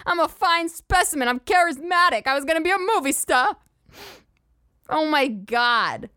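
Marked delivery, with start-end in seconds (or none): 0.1-3.6 bug voice. Acted. Voicing the roly-poly bug.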